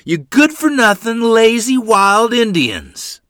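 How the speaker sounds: furious high shout, last words dragged out; booming insults. A narrator's reading. Father berates his careless children, booming fury. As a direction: bellow abuse at the children. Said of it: "the booming voice of my father".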